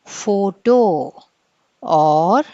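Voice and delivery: ఫోటో breathed with no voice; whispered demo. Shown as a demonstration. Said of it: "ఏమని pronounce చేస్తాం". (ఫోటో గుసగుసగా)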